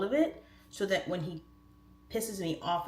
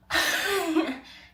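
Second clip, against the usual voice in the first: high-pitched giddy giggle; giddy laugh; 11 semitones higher, 6 dB louder than usual. Pretend. Asking Drake for a second before calling husband, high giddy laugh. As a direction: let out a high, excited laugh.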